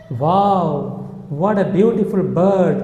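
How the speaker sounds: slow, measured example of marveling; admiring wonder. Shown as a demonstration. Teacher showing learners a sudden good feeling, mild wonder. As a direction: stretch out the admiration, mildly awed. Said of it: "हमें अच्छा लगा".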